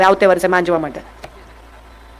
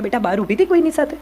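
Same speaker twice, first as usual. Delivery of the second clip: softer, tender question to a daughter; gentle, loving; 6 dB quieter than usual. Shown as a demonstration. Mother gently asking her daughter, soft and loving. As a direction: ask it with affection, no accusation. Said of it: "સ્નેહથી પૂછો".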